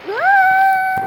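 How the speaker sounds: mataas at malakas na "Ah"; gulat na sigaw. Real, not acted. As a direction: napasigaw sa gulat. Biglang sigaw sa laro. (biglang tili)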